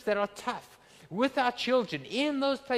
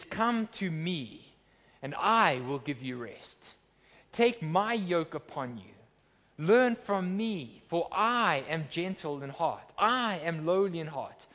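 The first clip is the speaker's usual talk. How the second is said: slow scripture reading; slower than usual. Acted. Preacher reads Jesus' words slowly.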